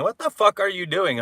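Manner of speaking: a shouted retold outburst; quoting dad yelling. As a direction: blurt it out in disbelief. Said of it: "my dad was saying".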